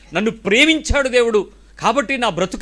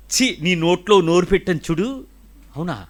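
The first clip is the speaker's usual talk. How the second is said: a mock-disgusted "ఛీ" then a low, scornful brush-off; disgusted retort; 3 semitones lower than usual. Preacher mimics a partner turning away in disgust, scornfully. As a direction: act out a scornful partner waving someone away.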